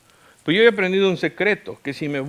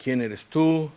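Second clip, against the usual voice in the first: soft, low plea to God; hushed, humble petition; retold prayer; 4 semitones lower, 6 dB quieter than usual. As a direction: intercede quietly, with pauses, dropping lower at the end. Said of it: "Y le dije, "Señor".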